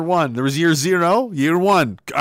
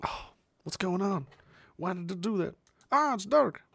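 hushed confused whisper; 4 semitones higher, 10 dB quieter than usual. Real, not acted. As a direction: whisper to yourself at the webcam.

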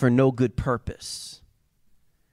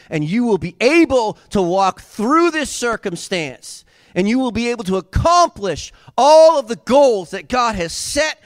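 building to a loud, high climax; preaching at full force; 6 semitones higher, 7 dB louder than usual. Acted. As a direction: swell louder and higher to a full-throated cry. Sermon climax on the Holy Spirit.

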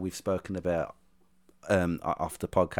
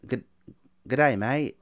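mock Australian accent; 3 semitones higher than usual. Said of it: "it's like".

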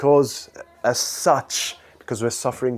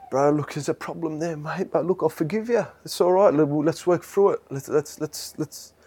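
patient reassurance; 4 semitones higher than usual. Acted. Acted patient forgiver.

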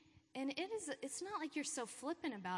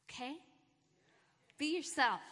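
louder, higher rallying shout of encouragement; pep talk cheer; 4 semitones higher, 5 dB louder than usual. Real, not acted. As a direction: pump them up like a coach. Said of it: "I'm giving you guys a pep talk".

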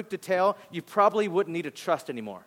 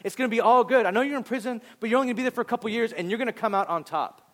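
upbeat encouragement; 5 semitones higher, faster than usual. Retold or imitated. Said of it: "He's like".

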